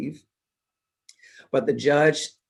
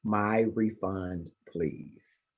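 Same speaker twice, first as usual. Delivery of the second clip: fading to a near whisper on please; quiet cold finish; 4 semitones lower, 7 dB quieter, much slower than usual. Retold or imitated. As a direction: coldly drop the voice to the last word. Speaker's cold final reply.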